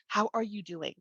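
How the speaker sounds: softly voiced caring check-in; gentle concern. Pediatrician checking on a new mom, gently concerned. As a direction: ask it gently, dropping the volume.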